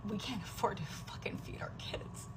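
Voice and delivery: hushed unvoiced whisper. Real, not acted. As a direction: whisper it, barely holding together. Venting despair at night.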